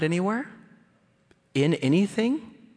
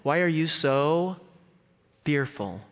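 slow scolding question; acted rebuke; 3 semitones higher, slower than usual. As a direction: ask it pointedly, dropping on "fearful". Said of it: "What does he say?".

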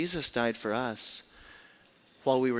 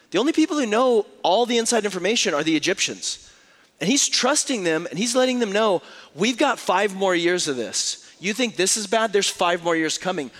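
preaching at full force; 6 semitones higher, 6 dB louder than usual. Acted. Preaching climax on the famine.

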